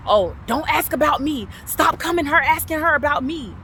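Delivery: mock angry yell, pitch climbing; retold yelling. Woman imitating the man yelling on the phone, agitated. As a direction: imitate someone losing it on the phone. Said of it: "screaming and yelling at me".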